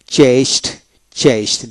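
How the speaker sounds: চেস্ট for chased, ending in t; final D as T. Shown as a demonstration. Teacher showing the past ending, চেস্ট with final t. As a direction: end চেস্ট on t, not d. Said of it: "ডিতে ট উচ্চারিত হবে".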